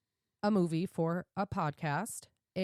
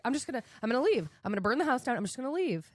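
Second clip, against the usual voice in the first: rushed, raised-pitch mock freak-out; retold panic; 4 semitones higher, much faster than usual. Woman retells wanting to flee the snake, panicked. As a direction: blurt out frantic plans to flee.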